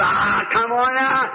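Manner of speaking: put-on slow, drawn-out drunken coaxing; drunken prospector. Prospector pressing Jack to drink, lightly voiced drunk. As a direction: lightly act a drunk urging someone on. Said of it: "You know how drunks are like that".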